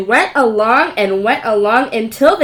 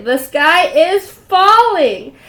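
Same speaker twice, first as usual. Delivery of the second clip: panicked wail; 6 semitones higher, 7 dB louder, much slower than usual. Acted. Chicken Little panics.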